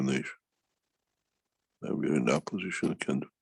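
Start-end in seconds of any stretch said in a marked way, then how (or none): none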